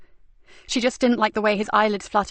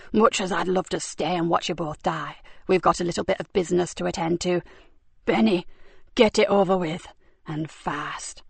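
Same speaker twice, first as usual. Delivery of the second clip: a bored killer winding things up; cold villain; 3 semitones lower than usual. Acted. Cox, low menace.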